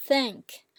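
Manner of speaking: "thank" high, as a Chinese first tone; high flat tone. Shown as a demonstration. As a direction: THANK on a high, level pitch. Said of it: "and it's flat".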